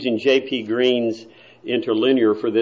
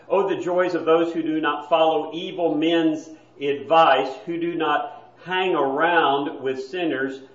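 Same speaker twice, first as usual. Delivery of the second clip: mildly mocking reading; 2 semitones higher than usual. Shown as a demonstration. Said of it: "it gets even worse".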